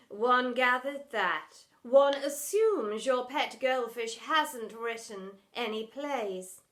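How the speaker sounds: very slow, dry and lofty; dry posh headmistress. Acted. Headmistress to drama teacher, slow and weary. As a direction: drawl it with weary disdain.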